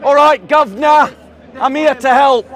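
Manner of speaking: a light, jokey cockney accent imitation; lightly imitated cockney accent, mocking the actor. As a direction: toss off a cheeky cockney line, barely put on. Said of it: "pretending to speak like some cockney".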